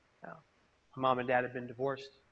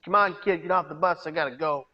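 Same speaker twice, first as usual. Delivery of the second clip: put-on louder, impatient driver shooing a kid off; brusque bus driver; 2 semitones higher, 4 dB louder than usual. Bus driver telling the kid to get off, a touch impatient. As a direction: hurry him off the bus. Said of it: "in typical San Francisco Muni fashion".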